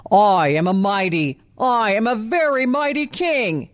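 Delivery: proud, delighted lion-king voice; a lightly voiced gleeful lion king; lion roaring in delight. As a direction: boast with glee like a vain lion. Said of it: "he roared in delight".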